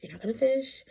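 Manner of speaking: hushed, resigned aside to oneself; inner voice. Retold or imitated. Mom voicing her own soul giving up on the day, hushed inner voice. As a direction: drop to a near-whisper, as private thought. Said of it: "in my soul, was like".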